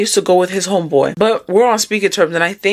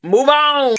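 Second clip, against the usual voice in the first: blunt; 7 semitones higher, 4 dB louder than usual. Real, not acted. Blunt advice.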